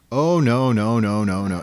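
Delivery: emphatic mock refusal, fading; doctor's refusal, imitated. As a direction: run of no's starting loud and high, then easing off.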